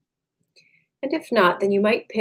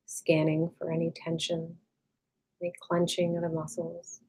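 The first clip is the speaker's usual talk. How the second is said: calm, unhurried meditation voice with long pauses; guided meditation; 3 dB quieter than usual. Acted. Meditation teacher leading listeners to release tension, calm and unhurried. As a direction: gently guide them inward, leaving space after each phrase.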